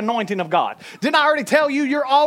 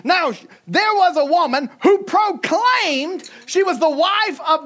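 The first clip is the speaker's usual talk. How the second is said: higher and slow, ringing declaration; proclaiming; 5 semitones higher than usual. Shown as a demonstration. Preacher rereading the verse, slow proclaiming. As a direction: read it as a bold proclamation. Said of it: "read it with the mentality that she was proclaiming".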